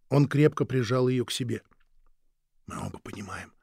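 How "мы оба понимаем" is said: unvoiced and fading; faint whisper. Dying wife telling her husband the end is near, whispering. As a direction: barely breathe it out.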